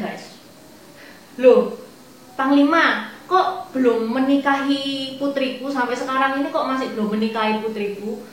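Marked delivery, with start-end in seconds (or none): 1.4-8.3 feigned innocence. Acted. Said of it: "Dia pura-pura inosen".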